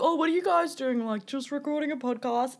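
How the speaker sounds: mocking the barista. Imitating the barista piping up at their table. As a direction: lightly voice him butting in. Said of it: "he was like".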